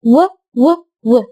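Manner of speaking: و said as a rounded w; w sound. Shown as a demonstration. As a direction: isolate the W sound. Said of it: "صوت ال W". (صوت الواو)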